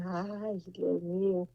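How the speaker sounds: hushed, breathy "Ay, Dios mío" to herself; mother whispering to God, moved; whispered prayer. Retold or imitated. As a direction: whisper it as if heartbroken. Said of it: "porque yo dije".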